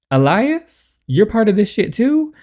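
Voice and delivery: loud, high outraged "too?"; angry accusation. Acted. Confronting Elias, furious and disbelieving. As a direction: call him out in disbelief.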